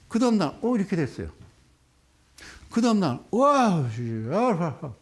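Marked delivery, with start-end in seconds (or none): 3.3-4.9 shocked gasp then groan; dismayed groan. Real, not acted. Stock plunged next day.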